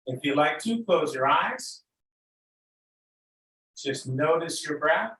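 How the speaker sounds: unhurried, lead them gently into noticing breath and body; guided meditation. Real, not acted.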